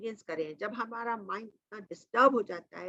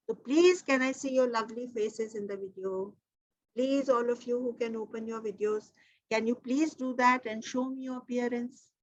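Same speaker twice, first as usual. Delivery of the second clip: slow coaxing; much slower than usual. Real, not acted. Slow coaxing request to audience.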